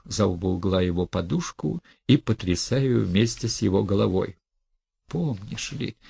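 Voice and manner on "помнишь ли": building to a high, loud furious outburst; furious hiss. Acted. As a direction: spit contempt at him, rising to a shout. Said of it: "шипела она своим яростным шёпотом".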